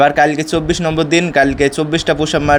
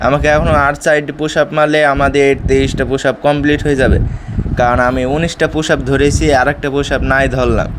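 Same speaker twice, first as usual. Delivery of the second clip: out of breath. Real, not acted. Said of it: "heavy হাঁপিয়ে গিয়েছি".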